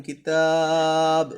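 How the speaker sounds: কিতাব with the তা stretched three alif long, very slow; slow Quranic drawl of কিতাব, long middle vowel. Shown as a demonstration. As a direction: pull the vowel in কিতাব out long, then stop on ব. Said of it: "তিন আলিফ টেনে পড়বেন".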